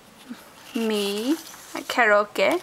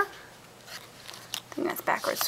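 a slow unvoiced aside to herself; whispered aside; 12 dB quieter, much slower than usual. Real, not acted. Muttered aside while crafting.

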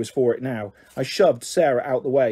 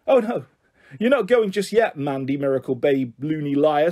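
menacing taunt. Acted. Bully stops Mandy from leaving, menacing taunt. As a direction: jeer at her as you block her way.

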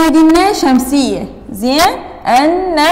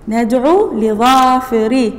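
slow dictation; slower than usual. Shown as a demonstration. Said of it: "حرف جر".

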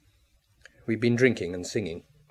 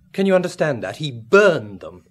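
incredulous outburst; 5 semitones higher, 11 dB louder than usual. Acted. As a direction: drive it home in disbelief. Incredulous about the burned money.

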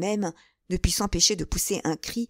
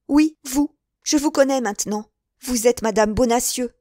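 raised, emphatic accusation; sudden accusing outburst; 2 semitones higher, 5 dB louder than usual. Acted. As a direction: unmask her forcefully. Milady accuses and unmasks novice.

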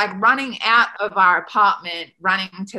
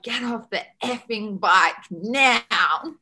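slow, drawn-out retold command; stern order; 3 semitones higher, slower than usual. Coach orders swimmer off the bike, slow and stern. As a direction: imitate an angry coach, stretching each word.

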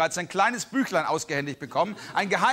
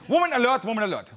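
alarm call; 3 semitones higher, 3 dB louder, faster than usual. Pretend. Mock alarm announcement.

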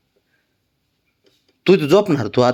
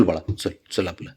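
soft coaxing; 6 semitones lower, 9 dB quieter than usual. Real, not acted. Coaxing pet gently.

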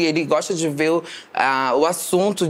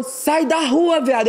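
imitando o valentão; 9 semitones higher, slower than usual. Retold or imitated.

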